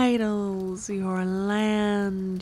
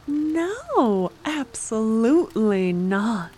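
angry refusal; 4 dB louder than usual. Acted. Refuses marriage, louder.

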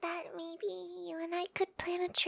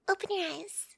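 whisper. Acted. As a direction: breathe it out as a whisper. Reveal after changing into bikini.

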